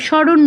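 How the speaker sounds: "স্মরণ" as shoron, no m; dropped m. Shown as a demonstration. Teacher showing a common habit, "স্মরণ" as shoron. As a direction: skip the m in "স্মরণ", Bengali style. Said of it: "একটা অক্ষর বাদ দিয়ে".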